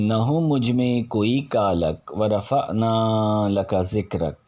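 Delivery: measured, devotional verse recitation with lifted line openings; naat recitation. Acted. Reciter presenting Muzaffar Warsi's naat to listeners, devotional verse recitation. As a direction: recite the verse in rhythm, easing down into each refrain.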